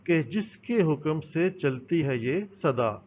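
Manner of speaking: slow, measured verse reading; reciting the poem. Shown as a demonstration. Teacher recites the last couplet of the poem, slow and measured. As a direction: read the couplet slowly like a recitation. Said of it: "اس کا پہلے آخری شعر دیکھیں۔".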